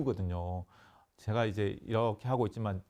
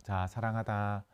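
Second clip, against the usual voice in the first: tender; slower than usual. Shown as a demonstration. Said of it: "쓰다듬어 주듯이".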